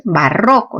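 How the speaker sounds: barroco stressed ba-RRO-co. Shown as a demonstration. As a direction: land on the middle syllable of barroco. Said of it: "sílaba tónica".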